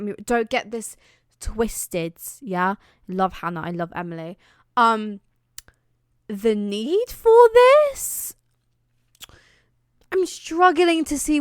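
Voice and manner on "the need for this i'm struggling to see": high, drawn-out disbelieving question; incredulous. Real, not acted. Vlogger questioning a needless dance, incredulous. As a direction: climb high and stretch it in exaggerated disbelief. Baffled by an unneeded dance scene.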